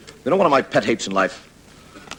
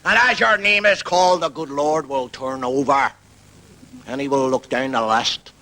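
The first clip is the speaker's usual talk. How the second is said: Paisley preaching; 2 semitones higher than usual. Retold or imitated. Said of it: "and he talks like that".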